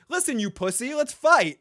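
high, loud hammed-up dare; mock challenge. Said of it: "And Jon says".

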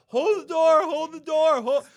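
high, loud screamed hold the door; imitating the scream. Host mimicking the young actor's screams, loud. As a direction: scream it like the desperate kid. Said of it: "the screams of the Hodor".

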